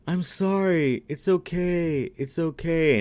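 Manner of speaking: high-pitched imitation of soothing; apologetic cooing, put on; mock consoling. Heroine to the crying troll in a retelling, mock consoling.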